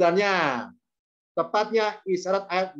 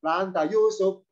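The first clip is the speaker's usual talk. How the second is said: right high take; 2 semitones higher than usual. Shown as a demonstration. Teacher showing students the correct high question tune. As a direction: raise "La anta Yusuf" up high, the right way. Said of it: "Tapi tinggi".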